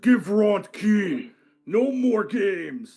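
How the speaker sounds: very loud, enraged, furious tone. Voicing Ronth demanding the key from the guards: very angry demand. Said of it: "very angry".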